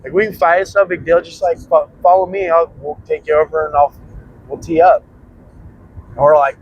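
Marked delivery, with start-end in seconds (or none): 0.0-5.0 challenging gangster. Retold or imitated. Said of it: "He's like".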